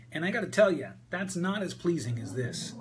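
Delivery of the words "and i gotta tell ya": pitched higher, pushed up into the nose; old nasal voice. Shown as a demonstration. Coach demoing the old voice to the call, higher nasal. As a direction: talk up here in your nose like the old habit. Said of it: "kinda like this".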